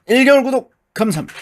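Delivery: high, fast thanks while exercising; straining, rushed thanks. Real, not acted. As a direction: blurt it out mid-rep.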